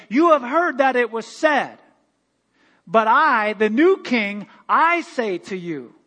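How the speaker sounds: loud, slow royal decree; a king declaring new law to the conquered; proclaiming king. Pretend. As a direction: announce it like a new king taking the throne. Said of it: "He would come in and say".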